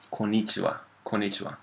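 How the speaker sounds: konnichiwa as ko-nichiwa, one n only; common mispronunciation. Retold or imitated. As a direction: drop the long n in konnichiwa, like a learner. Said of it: "So a lot of people".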